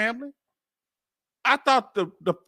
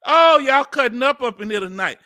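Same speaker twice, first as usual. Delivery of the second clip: louder, lifted exclamation to the chat; delighted; 3 semitones higher, 6 dB louder than usual. Real, not acted. Host calls out to his lively chat, louder and delighted. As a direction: call out to the chat, tickled.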